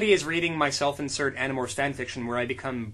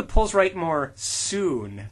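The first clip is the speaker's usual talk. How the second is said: very slow drawn-out recital; hammed-up reading; mock solemn; 3 semitones higher, 4 dB louder, much slower than usual. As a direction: linger over every word. Reciting quote slowly.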